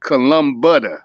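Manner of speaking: "Columbutter" run together as one word; Southern-accent mispronunciation. Real, not acted. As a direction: misread the name as "Columbutter", Southern style. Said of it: "I got a accent and shit like that".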